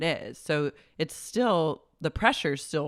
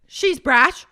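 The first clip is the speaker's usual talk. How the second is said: high, loud disgusted sneer; imitating Vicky ranting about Brandy; mock Vicky; 9 semitones higher, 11 dB louder than usual. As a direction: spit it out in contempt. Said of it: "She goes".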